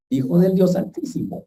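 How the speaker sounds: a hint of satanic voice, pitched high; demon voice. Preacher imitating the demon addressing Jesus, mock satanic voice. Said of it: "Una cosa así toda satánica".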